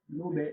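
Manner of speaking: লোভে ending in a short downward "be" echo; downward pull on b. Shown as a demonstration. Teacher showing how ba echoes, downward pull on the b. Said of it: "বের মতো করে একটা নিচে টান পড়বে".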